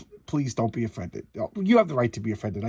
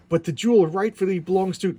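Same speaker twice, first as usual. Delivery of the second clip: villain voice; 4 semitones higher, 5 dB louder than usual. Acted. Voicing villains' claim.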